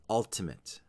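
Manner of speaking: "Ultimate" with UL strongest; first-syllable stress. Shown as a demonstration. Teacher repeating the word for learners, "Ultimate" stressed on UL. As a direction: say UL-tuh-mit for "Ultimate". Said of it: "with the stress on the first syllable".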